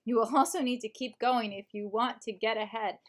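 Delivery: measured audiobook narration; audiobook reading. Shown as a demonstration. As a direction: read the self-help book aloud as a narrator. Reads book in audiobook voice.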